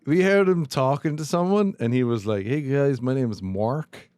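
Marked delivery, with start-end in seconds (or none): 2.5-4.1 Irishman imitating an American accent; mock Americanized Irish voice; put-on American accent. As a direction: say MARK with a broad American vowel. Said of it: "do that so Americans understood me".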